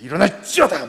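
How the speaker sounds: put-on a revivalist commanding the girl to rise, full-force shout; revival preacher. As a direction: bellow it like a revival healer. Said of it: "이렇게 부흥사처럼".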